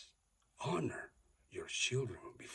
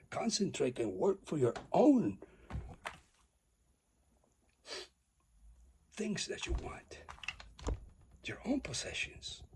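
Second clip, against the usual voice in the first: high loud preaching; 10 semitones higher, 7 dB louder than usual. Real, not acted. Preaching climax.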